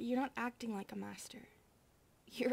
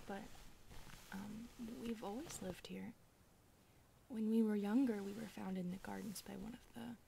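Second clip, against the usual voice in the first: soft hushed storytelling whisper; whispered story; 3 dB quieter than usual. Acted. Maid telling the master their childhood story, whispered. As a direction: tell the past quietly and tenderly.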